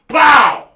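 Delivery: explosive, high shouted "pow"; imitated gunshot. Dad shooting the raccoon, shouted gunshot. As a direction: blast it out like a rifle.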